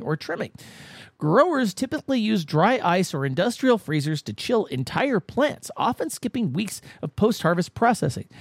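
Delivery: measured feature narration with punched key words; scripted segment read. Acted. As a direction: read it like a documentary script, pausing for effect.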